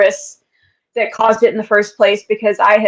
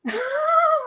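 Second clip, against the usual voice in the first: retold cackle; 8 dB quieter than usual. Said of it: "I just hear this cackling".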